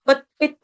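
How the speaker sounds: पत, पित clipped apart as separate syllables; wrong way. Shown as a demonstration. Teacher shows students the wrong pronunciation. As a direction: break पित off badly, as students should not. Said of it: "ऐसे नहीं बोलेंगे".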